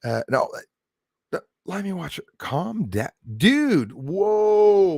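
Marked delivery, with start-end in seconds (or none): 3.4-4.9 high, loud startled whoa; taken aback by a hostile message. Real, not acted. Reacting to aggressive chat message.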